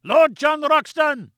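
slow, high, drawn-out call; shouting. A narrator's reading. Gomez shouting to Lord John across the chasm, long high call. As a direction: hail him across the abyss, stretched out. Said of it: "he shouted".

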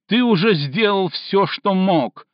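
high, loud bitter cry; shouted. Acted. Cindy blaming Stinov, bitter shout. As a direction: throw it at him. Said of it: "крикнула Синди".

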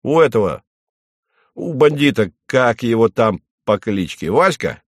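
plain reading voice

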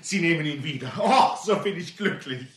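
relieved happy laughter; laughing. Acted. Tellheim relieved, ring returned.

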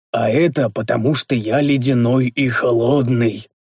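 slow, grim and dry; grim reply. Acted. Hero grimly answers Rikar about keeping his temper. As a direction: say it darkly, deadpan. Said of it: "мрачно ответил я".

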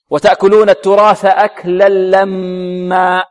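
slow recitation, أكلا لما merged with no n; complete idgham. Shown as a demonstration. Teacher models the verse, full lam merging in أكلا لما. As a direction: stretch the double lam of أكلا لما cleanly. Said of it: "لأنها أدغمت إدغام تام".

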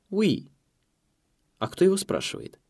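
put-on chirpy girl at the desk; high receptionist voice. A narrator's reading. Receptionist on the phone.

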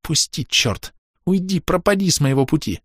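a lightly voiced hoarse mutter, rising into a high cry. A narrator's reading. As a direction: struggle and mutter hoarsely to be let go. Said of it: "бормотала сипло".

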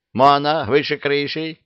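hammed-up witch telling off the dragon; Yaga scolding. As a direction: scold him down, loud and high.

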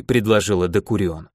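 usual speaking voice

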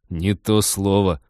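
slow, smug grin in the voice; smirking. Acted. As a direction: say it with a self-satisfied smirk. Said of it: "ухмыльнулся Теодор".

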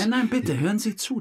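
high, loud insistence; urgent plea. Real, not acted. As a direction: demand his attention. Insists the detective listen.

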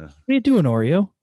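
talking to a dog. Real, not acted.

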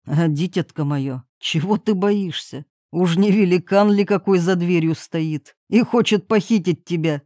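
a lightly voiced gentle old king.

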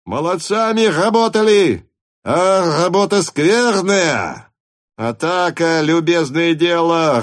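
loud, high, slow hussar's shouting. A narrator's reading. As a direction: bellow it over the battle noise. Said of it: "прокричал Денисов".

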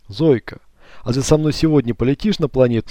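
wet, bubbling creature voice; gurgling voice. Acted. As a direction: speak as if through water. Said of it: "каким-то булькающим голосом".

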